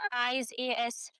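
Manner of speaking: low, soft, quick irritation; understated annoyance, voice dropped low; annoyed. A narrator's reading. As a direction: mutter it quickly, mildly put out. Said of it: "فتح مازن بضيقه وهو بيقول".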